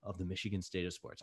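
mild radio announcer sign-off; half-hearted announcer read; a little announcery. Real, not acted. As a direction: lean into a broadcast voice for a moment. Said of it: "that was a little announcery".

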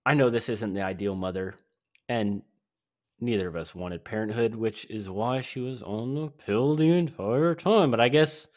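stretched-out mock British surfer accent; Zach as British surfer. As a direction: confess it in a hammed-up European surfer accent. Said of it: "British surfer".

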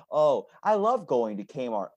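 slow, put-on gushing; mock delight, insincere and stretched; fake enthusiasm. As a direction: pretend to love it, drawing it out. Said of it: "But I don't fake".

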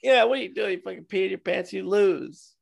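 mock referee scolding. Pretend referee ruling against a fighter, mock scolding. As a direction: scold him as a pretend ref.

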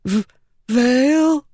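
put-on high, weak child voice asking; a hurt boy barely recognizing her; dazed boy.

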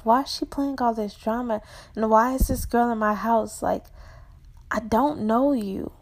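puzzled aside. Acted. Narrator's puzzled thoughts to herself.

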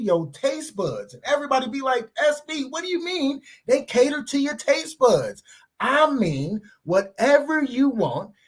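relaxed personal ad read for a pizzeria; sponsor ad read. Acted. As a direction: sell the pizza place to your listeners. Reads a sponsor ad.

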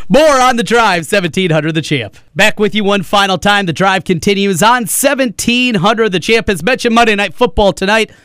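upbeat sports-radio host voice; radio promo read. Real, not acted. Host telling listeners about tonight's football coverage, in radio promo voice. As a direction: announce the show with measured punch.

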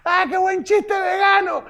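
high, slow giddy laugh-talk; hysterical laugh. Acted. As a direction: gush through a laughing fit. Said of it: "caer en un ataque de risa". (risa histérica)

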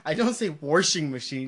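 washing said as warshing, with an R; added R in washing. Shown as a demonstration. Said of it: "they add the R's".

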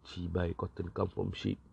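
mock disgusted repeat; scornful retort. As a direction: sneer the words back at the fool. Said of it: "telling things like".

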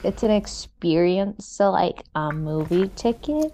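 slow, drowsy yawning speech. Real, not acted. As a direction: stretch words through a yawn. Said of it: "I'm yawning".

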